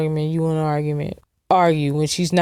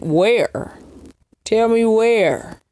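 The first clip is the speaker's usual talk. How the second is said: mock eager fan; 4 semitones higher, much slower than usual. Mocking eager fan search.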